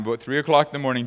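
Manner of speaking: hurried repeat of the time. Shown as a demonstration.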